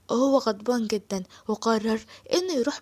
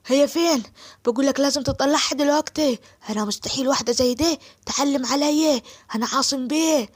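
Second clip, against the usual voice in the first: 1 angry demand; 3 dB louder than usual. Acted. Asim storms in demanding Suad.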